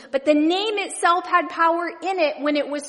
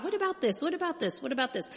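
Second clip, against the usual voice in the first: fading questions; 2 semitones higher, 8 dB quieter, much faster than usual. Retold or imitated. Reader to congregation, asking God quietly and fading. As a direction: ask God again and again, trailing off. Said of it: "asking God".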